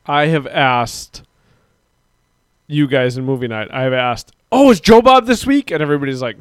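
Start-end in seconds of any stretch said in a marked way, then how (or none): 4.5-5.7 high-pitched, hopeful retold question; bright-eyed anticipation, mimicking oneself; eager question. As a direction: pitch it up like an eager fan asking. Retold eager question to movie group.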